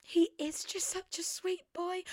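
high, crying-edged voice; almost breaking into tears; tearful. Retold or imitated. Owner gushing about her cat, near tears. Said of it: "was like".

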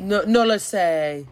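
drawn-out Spanish reply; put-on Spanish. Co-host answering the pretend Spanish speaker, put-on Spanish. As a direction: play along in slow mock Spanish. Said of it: "coming back to school and being".

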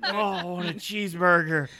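loud laughing parody of a mumble; mocking imitation. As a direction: echo it back, hamming it up. Mimics the mumble.

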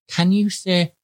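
imitating a child teaching a slow pupil; condescending nursery-teacher prompt; patronising over-enunciation. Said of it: "over, elongated the word so I could get it".

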